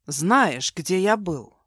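ordinary delivery, nothing marked

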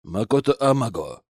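offhand, arrogant samurai drop; careless. Acted. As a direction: toss the name out carelessly. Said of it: "бросил он небрежно".

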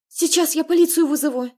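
high, loud panicked threat; frightened cry. Acted. Sister panicking as the men arrive, frightened shout. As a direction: blurt it out in fear.

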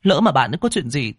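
high, fast, annoyed urging; irritated. A narrator's reading. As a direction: snap at him to hurry. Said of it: "Ngân nói bực dọc".

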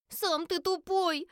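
put-on high, slow, shrill-pitched child's retort; a girl yelling back at her brother; girl shouting. A narrator's reading. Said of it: "закричала девочка". (девочка кричит брату, высоко и медленно)

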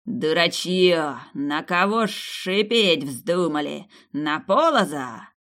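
slow, contemptuous hiss-like taunt; slow haughty scorn; scornful serpent. Acted. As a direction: sneer down at the soldiers.

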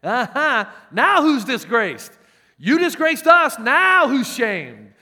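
loud, high, slow gloating taunts; Jesus' audience jeering the shamed son; mocking crowd. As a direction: rub his disgrace in his face. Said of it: "They'd be thinking".

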